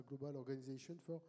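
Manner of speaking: English name said with a French accent, slowed. Shown as a demonstration. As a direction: read out the English title the French way. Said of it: "je le dis avec l'accent français".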